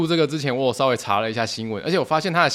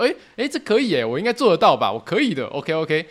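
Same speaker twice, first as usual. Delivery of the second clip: self-assured excitement; 3 semitones higher than usual. Retold or imitated. Reassuring herself about the task.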